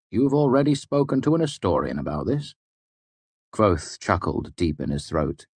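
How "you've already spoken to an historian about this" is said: a surprised question pitched higher; startled and a little hurt; taken aback. Acted. Chronicler, taken aback, asking Kvothe: surprised higher question. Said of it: "Chronicler was taken aback".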